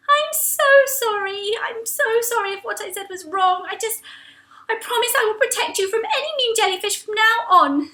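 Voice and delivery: very high, rushed sorry; Angel apologising. Acted. Angel rushes to say sorry to Mac, very high. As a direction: gush out the apology.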